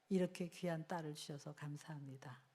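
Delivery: whispered thanks to God; a whispered grateful prayer over the daughter. Retold or imitated. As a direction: breathe the prayer without voice.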